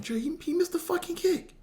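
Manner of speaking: very high falsetto mock whimper of a devastated dad; hammed-up high-pitched moaning; disbelieving lament. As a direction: squeak it out in stunned disbelief. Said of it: "that night he just like".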